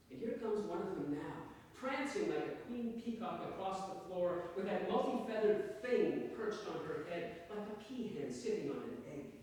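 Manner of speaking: measured literary story reading, lilting in pitch; story narration. A narrator's reading. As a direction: read your short story to an audience. Reads own story to audience.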